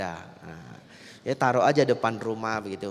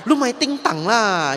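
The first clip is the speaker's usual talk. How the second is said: higher, louder, slow hissed-out telling-off; a wife scolding her fidgeting fake-dead husband; mock scolding; 8 semitones higher, 7 dB louder than usual. Istri memukul suami yang bergerak. (omelan pura-pura, lebih tinggi dan keras)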